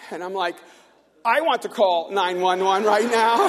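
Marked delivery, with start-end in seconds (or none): 1.2-3.5 slow, loud, drawn-out retold protest; exasperated mock outburst. Frustrated neighbour answering the show's staff, loud mock exasperation. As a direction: push every word out loud and slow.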